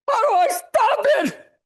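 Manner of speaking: put-on spooked boy hearing a strange noise; startled boy. Boy asking mother about the cereal noise, scared and high.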